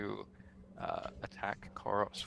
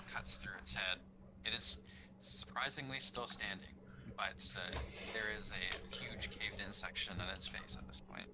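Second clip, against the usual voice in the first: softer, hushed narration; suddenly quiet; 9 dB quieter than usual. Real, not acted. Game master describing the caved-in face, hushed. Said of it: "you got pretty quiet there".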